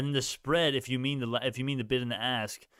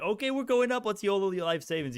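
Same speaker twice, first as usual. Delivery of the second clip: high-pitched imitation of an over-eager crowd; mock hyped-up trader; 9 semitones higher than usual. Streamer imitating viewers hyped by his prediction, mock excitement. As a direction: mimic hyped investors, pitched way up. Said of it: "everyone's gonna be like".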